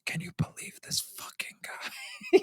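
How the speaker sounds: slow, incredulous stage whisper. Acted. Boyfriend to girlfriend in the bakery line, whispering. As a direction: whisper it slowly, gossiping about someone. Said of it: "like, whisper it to her".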